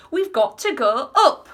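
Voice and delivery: loud, high, drawn-out insistence; yelling back. A narrator's reading. Wonka tells the grandparents they must climb, yelling slowly. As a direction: yell it slowly over the roar. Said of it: "Mister Wonka yelled back".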